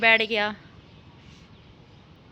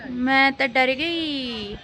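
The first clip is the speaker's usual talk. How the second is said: drawn out, hammed-up scared whine; slow mock fright; much slower than usual. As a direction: stretch it out like a pretend scared girl. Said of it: "तुम डरी हो?". (बनावटी डर से खींचकर बोलना)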